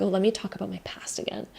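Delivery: whispered, weary mock confession. Mocking someone stuck on their past at lunch, whispered. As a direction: hush it like a tired old habit. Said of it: "you're no longer just like".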